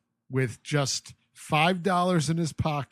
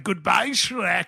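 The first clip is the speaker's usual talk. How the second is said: dismissive goodbye; 4 semitones higher, 3 dB louder, slower than usual. Retold or imitated. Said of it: "he just calls her Shrek, like".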